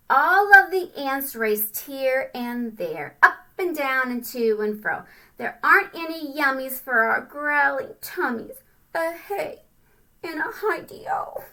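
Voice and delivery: sing-song storybook reading; rhyming read-aloud. A narrator's reading. Parent reading a rhyming picture book to a child, sing-song. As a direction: bounce through the rhyme for kids.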